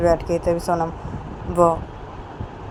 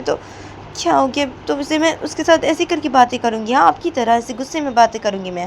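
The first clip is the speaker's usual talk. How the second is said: higher-pitched, upset objection; hurt, higher voice pleading her case; protesting Payal; 5 semitones higher than usual. Acted. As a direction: push back indignantly, with questioning little jabs. Plays Payal objecting to Poonam.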